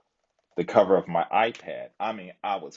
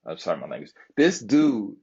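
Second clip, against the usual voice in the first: higher, pointing at the joker; heated accusation; 4 semitones higher than usual. Retold or imitated. Vlogger retelling how he called out the joker to the group, higher and heated. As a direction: call him out, building heat. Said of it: "I said".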